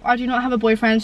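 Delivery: stuffy nose from a cold; blocked nose. Real, not acted. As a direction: speak through a blocked nose. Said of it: "I've got really runny nose".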